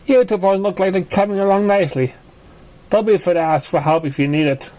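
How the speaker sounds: bright high filly voice, encouraging; a cheerful young pony teacher helping out; Apple Bloom. Acted. Apple Bloom encourages the two boys, in a high, friendly filly voice.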